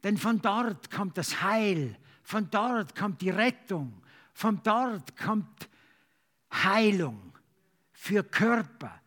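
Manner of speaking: earnest praying voice; fervent prayer. Acted. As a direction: pray aloud for the church. Congregational prayer.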